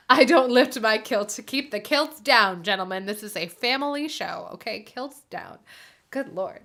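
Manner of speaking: mock Scottish brogue, loud at first; hammed-up Scottish scolding, hushing at the end; bad Scottish accent telling the lads to keep kilts down; terrible Scottish accent. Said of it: "laughing at my terrible Scottish accent".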